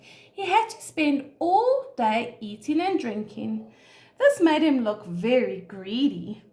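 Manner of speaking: measured, expressive storybook narration; story reading to children. A narrator's reading. Teacher reads an animal story to children, expressive storytelling. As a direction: read it clearly for young listeners.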